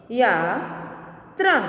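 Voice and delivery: slow, each sound drawn out, rising at the end; slow drawn-out reading. Shown as a demonstration. Teacher slowly sounding out a word for students, drawn out. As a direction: stretch the word slowly for the class. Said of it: "आगे देखें".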